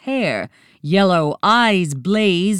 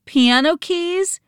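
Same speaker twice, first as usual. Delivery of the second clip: higher, urgent guess; urgent call; 12 semitones higher than usual. A narrator's reading. Nancy guessing the riddle, calling out urgently. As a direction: blurt the guess out fast and eager. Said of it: "Nancy called out urgently".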